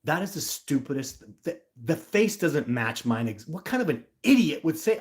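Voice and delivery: exasperated outburst, punching words; overly emotional. Real, not acted. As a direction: let the irritation spill over. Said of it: "here's where I get overly emotional".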